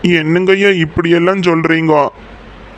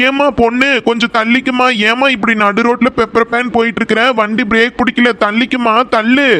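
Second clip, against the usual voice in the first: calling out; 6 semitones higher than usual. Acted. Calling out to girl in road.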